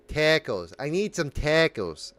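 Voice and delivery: trying out a Midwestern accent. Shown as a demonstration. Podcaster warming up an accent for listeners, tentative Midwestern. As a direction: feel your way into Midwestern vowels. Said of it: "I gotta get into that Mid-, Midwestern a-, accent".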